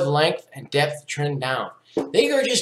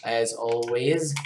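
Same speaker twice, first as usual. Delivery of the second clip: put-on Russian accent; slower than usual. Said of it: "sorry, I talk in the Russian accent".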